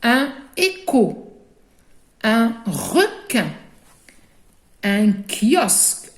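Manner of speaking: Un écho, Un requin, Un kiosque: each said slowly and distinctly; drawn-out words for a class to repeat; teacher modelling vocabulary slowly; slow model words. Shown as a demonstration. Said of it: "Répétez derrière moi".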